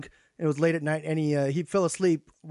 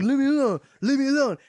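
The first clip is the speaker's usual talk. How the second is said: higher, louder slurred drunk imitation; protesting drunk; 8 semitones higher, 4 dB louder than usual. Drunk resisting the friend lifting him, slurred mock whine. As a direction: whine it like a drunk fighting off help.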